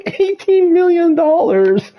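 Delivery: high, incredulous squeal of disbelief; can't believe the price tag, voice shooting up. Real, not acted. Shocked by car prices.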